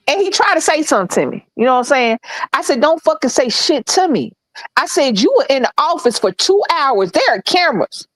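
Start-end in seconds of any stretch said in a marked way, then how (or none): 2.8-4.3 higher-pitched indignant telling-off; retold telling-off. 5.2-8.1 higher, emphatic accusation; retold indignant rebuke. Retold telling-off of manager.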